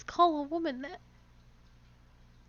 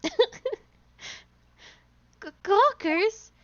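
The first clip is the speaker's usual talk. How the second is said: put-on loud, bossy old woman; 5 dB louder than usual. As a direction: shout like a pushy old lady guard. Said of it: "I have to do an old woman voice".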